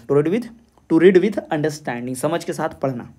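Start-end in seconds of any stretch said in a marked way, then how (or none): 0.1-2.1 "to read with understanding" said slowly, word by word; slow repeated answer. Shown as a demonstration. Teacher repeating the answer for students, slow and deliberate. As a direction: spell the answer out slowly for the class to note down.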